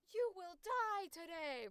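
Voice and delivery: high, loud battle cry; hammed-up attack shout, stretched out; video game warrior bark. Shown as a demonstration. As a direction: declare doom like a charging warrior. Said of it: "their main special attack and they go".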